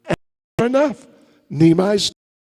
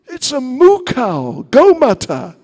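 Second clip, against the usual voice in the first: put-on high, louder cooing to a baby; sing-song baby talk, higher and louder; 7 semitones higher, 7 dB louder than usual. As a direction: coo at the child to distract it. Cooing to a crying child.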